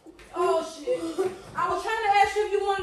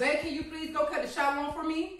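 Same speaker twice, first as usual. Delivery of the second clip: asking like a wife; 3 semitones lower, 6 dB quieter than usual. Shown as a demonstration. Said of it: "Can you ask me like a wife?".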